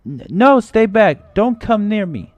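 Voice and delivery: high, loud terrified warning; panicked shout. Acted. Cornered girl warning her captors, panicked shout. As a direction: shriek them away in panic.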